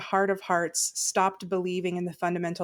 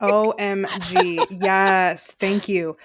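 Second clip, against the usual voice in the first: excited; 5 dB louder, much slower than usual. Real, not acted. Excited agreement with host.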